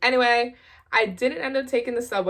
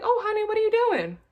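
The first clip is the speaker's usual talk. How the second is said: dad voice; 12 semitones higher, 3 dB louder, faster than usual. Retold or imitated. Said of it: "He's like".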